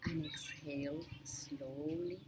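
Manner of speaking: unhurried meditation guide with long pauses; measured instructions in short, spaced-out phrases; guided meditation. Real, not acted. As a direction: guide listeners gently through breath awareness, leaving lots of space. Leads a breathing meditation.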